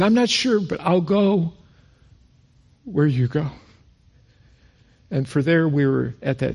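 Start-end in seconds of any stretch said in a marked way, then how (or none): 0.0-3.5 a hint of the wife, higher; wife's voice. Husband retelling wife's reply, lightly voiced. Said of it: "She goes".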